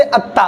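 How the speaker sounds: अत्ता with a thin, light t and open "aa"; thin light articulation. Shown as a demonstration. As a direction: say अत्ता finely, without rounding or heaviness. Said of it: "इसको पढ़ूंगा महीन आवाज में".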